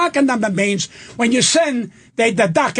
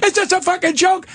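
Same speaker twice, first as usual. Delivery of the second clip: angry judge; 5 semitones higher than usual. Retold or imitated. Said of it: "The fucking judge".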